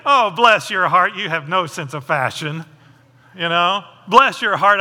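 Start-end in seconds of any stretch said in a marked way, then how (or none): 0.1-2.7 sugar-coat the insult with a fake smile; mock sweet insult. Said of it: "'Cause we'll say". 4.1-4.8 louder, mock-sweet Southern jab; a sweet-sounding dig; snide bless your heart. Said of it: "fill in the blank of some, you know, derogatory".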